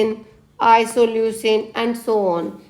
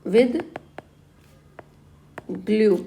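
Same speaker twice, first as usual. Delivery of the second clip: slow spelled-out mnemonic. Shown as a demonstration. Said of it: "with glue बोल दो इसको".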